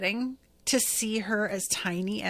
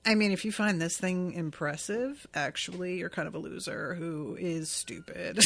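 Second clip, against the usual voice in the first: mock condescending; 2 semitones lower, 5 dB quieter than usual. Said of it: "be like".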